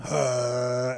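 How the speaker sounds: drawn-out mock zombie moan; imitated zombie groan. Zombie completes the drunks' song, imitated groan. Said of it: "he's completing the beat".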